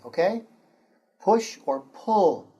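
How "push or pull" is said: slow, careful repeat; model phrase repeated. Shown as a demonstration. Teacher repeating a model phrase for the students. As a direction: say it slowly once more for the class. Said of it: "I say, you say".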